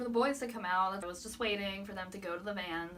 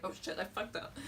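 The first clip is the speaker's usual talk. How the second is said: whispered panic; 4 dB quieter than usual. Retold or imitated. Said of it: "And I was like".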